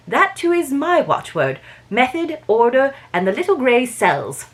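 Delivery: put-on French Belgian accent. Belgian detective correcting the inspector, amateur French Belgian accent. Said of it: "I have to do it in a French Belgian accent".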